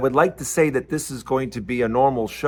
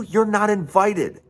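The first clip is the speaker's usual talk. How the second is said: ordinary talk, nothing marked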